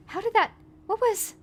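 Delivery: high, bewildered questions; baffled and disoriented; confused. Acted. Wendy confused in water.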